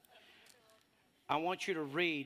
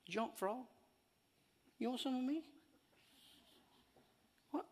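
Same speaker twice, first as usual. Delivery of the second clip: tough challenge to the devil; 10 semitones higher, 4 dB quieter than usual. Retold or imitated. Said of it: "I'm talking some attitude".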